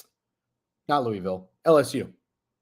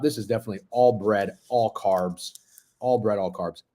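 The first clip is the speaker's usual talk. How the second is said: talking while chewing; mouth full; 5 semitones lower than usual. Real, not acted. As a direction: speak through a mouthful of bread. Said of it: "talking from my mouth full".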